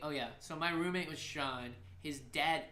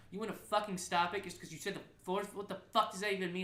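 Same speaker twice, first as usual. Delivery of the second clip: raised, indignant rant; retold angry outburst; 5 semitones higher, 4 dB louder than usual. DJ reenacting blowup at roommate over stopped party, angry rant. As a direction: reenact losing it at a friend. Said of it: "I lose my shit".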